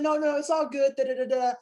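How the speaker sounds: high, loud, excited reassurance; bubbly retold phone voice; really excited. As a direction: imitate an excited casting director waving it off. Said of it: "she was really excited".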